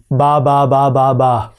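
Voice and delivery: put-on ba ba ba like a babbling baby; baby babble. Shown as a demonstration. Teacher imitating a baby to practise the B. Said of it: "Similar to a baby".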